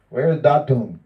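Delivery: mock demand from the teacher, called out; calling impatiently through the house. Guru demanding his twig again.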